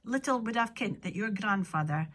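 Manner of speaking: normal talking voice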